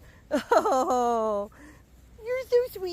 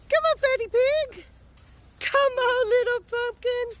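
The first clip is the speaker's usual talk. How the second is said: high-pitched call to a pig; coaxing a pet; 5 semitones higher, 3 dB louder than usual. Real, not acted. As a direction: coax it over in pet talk.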